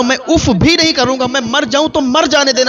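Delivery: high, strained, tearful begging; desperate plea. Acted. Father to the doctor, begging to save his son: high tearful plea. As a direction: give everything for the son, voice breaking upward.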